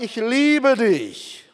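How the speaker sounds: slow and tender, with a different timbre; sehr langsam und zärtlich gesprochen; tender, slow declaration. Acted. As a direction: say it like a father to his child. God speaks to his children.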